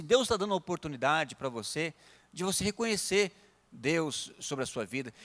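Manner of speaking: quietly assured, retold reply; laid-back calm. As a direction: answer hostility calmly and gently. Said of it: "assim, meio tranquilão".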